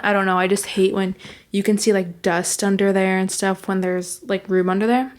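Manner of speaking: slightly out of breath. Real, not acted. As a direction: talk a bit winded from walking around. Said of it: "Sorry if I sounded so out of breath".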